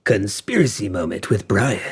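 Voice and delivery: mock show-intro voice; mock segment announcer. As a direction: announce it like a jokey segment title.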